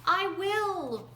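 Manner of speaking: loud high call after her. A narrator's reading. Roadrunner calling after departing Desert Woman. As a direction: call it up the mountain. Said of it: "Roadrunner called".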